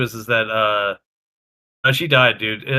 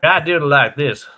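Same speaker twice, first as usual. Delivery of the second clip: demonstrated southern accent. Shown as a demonstration. Showing a friend how he does it, southern accent. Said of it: "you could do a southern accent".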